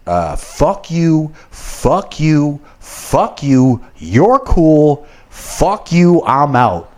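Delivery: high, hammed-up fuck-you rant; Half Baked impression. Quitting the job like the Half Baked character, hammed-up rant. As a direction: stoner movie quitting rant, mock furious. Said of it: "what's his name from Half Baked".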